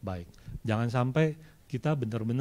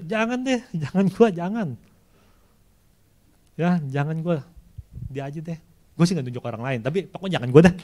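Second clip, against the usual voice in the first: higher, pleading, mock reluctant; whiny refusal; 4 semitones higher than usual. Believer begging God not to pick him, high mock whine. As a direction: beg off like a reluctant servant, high.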